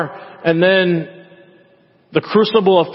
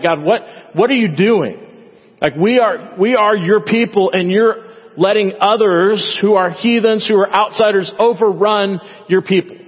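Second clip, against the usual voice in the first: frustrated complaint; 4 semitones higher than usual. Retold or imitated. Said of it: "is like".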